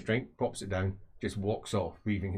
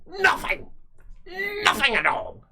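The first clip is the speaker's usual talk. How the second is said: high, loud barked answer; furious shout; 5 dB louder, slower than usual. Acted. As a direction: bark it at him. Boss yelling at underling.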